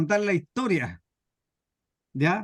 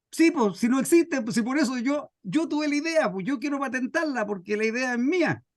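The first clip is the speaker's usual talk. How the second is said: higher, pushing his point on the clerk; a stubborn man who won't take no, pitched up; exasperated inventor, voice raised in pitch; insistent inventor; 4 semitones higher than usual. Acted.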